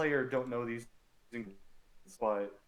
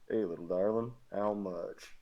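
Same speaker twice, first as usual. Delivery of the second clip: southern drawl; 2 semitones lower, 4 dB louder than usual. Acted. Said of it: "A little southern drawl to it".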